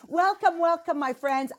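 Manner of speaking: big, high, booming greeting; booming sing song welcome. Real, not acted. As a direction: belt out the welcome with joy. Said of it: "I am overexcited".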